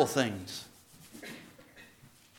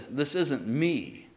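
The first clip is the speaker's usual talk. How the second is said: mocking repeat; 3 semitones lower, 5 dB quieter, slower than usual. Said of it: "And then I said".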